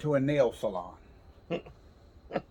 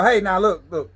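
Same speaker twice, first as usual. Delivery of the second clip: mock firm warning; 5 dB louder than usual. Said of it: "I go".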